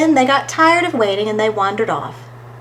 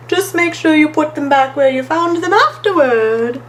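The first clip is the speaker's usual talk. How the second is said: higher, smiling storybook friend; 5 semitones higher, 3 dB louder than usual. A narrator's reading. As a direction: give a friendly reminder with a lilt. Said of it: "smiled Stripe".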